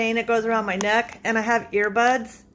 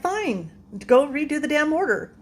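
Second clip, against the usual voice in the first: higher, exasperated giving in; retold pissed off; 5 semitones higher than usual. Customer telling manager to redo the order, pissed off. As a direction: act out grudging, irritated agreement. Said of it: "I'm getting really pissed".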